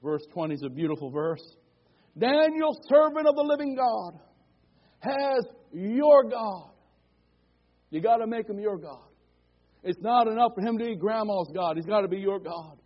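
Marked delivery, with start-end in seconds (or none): 2.2-6.7 raised, pleading call, slowing at the end; worried king calling out, a bit louder; anguished call. Acted. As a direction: call into the den, fearing the worst. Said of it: "in an anguished voice".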